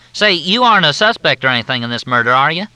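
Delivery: high, loud, syrupy Southern drawl; Southern officer on the phone, in a thick drawl. Acted. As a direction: drawl it out like a courteous Southern major. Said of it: "The drawl was so steeped in courtesy".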